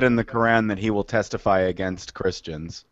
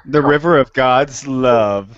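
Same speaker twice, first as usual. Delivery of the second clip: slow mocking echo of a preacher; mock reverence; 3 dB louder, slower than usual. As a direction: draw it out, imitating the preacher.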